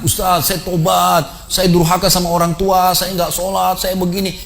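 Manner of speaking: slow, high-pitched plea of a shaken penitent; trembling confession. Retold or imitated.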